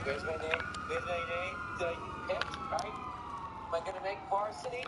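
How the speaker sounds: eagerly searching, mildly excited retelling; mock excitement. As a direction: retell it with a touch of hopeful excitement. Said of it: "I'm all excited".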